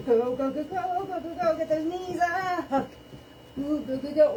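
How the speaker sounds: high, pumped-up fitness coach calling; aerobics instructor. Acted. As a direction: drive the class through the sprint. Leads sprint countdown like instructor.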